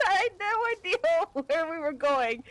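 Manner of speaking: talking through laughter; laughing. Real, not acted. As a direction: giggle through the line. Laughing while telling story.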